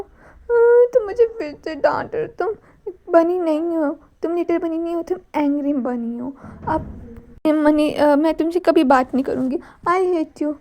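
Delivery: put-on stamp your foot like a scolded little girl; childlike tantrum. A tantrum after scolding.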